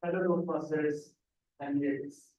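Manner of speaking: usual speaking voice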